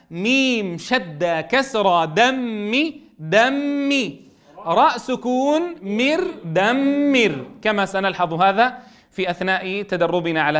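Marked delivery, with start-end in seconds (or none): 0.1-7.5 slow sounding out of دمر; syllable-by-syllable spelling. Shown as a demonstration. Teacher spelling دمر out for pupils, slow. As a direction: build دمر syllable by syllable, slowly. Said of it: "فنقول دال فتحة دا".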